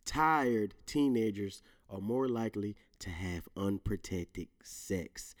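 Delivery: a careful, stumbling reread. Shown as a demonstration. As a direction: read it slowly and deliberately, fading out on sex. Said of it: "Let me say that again".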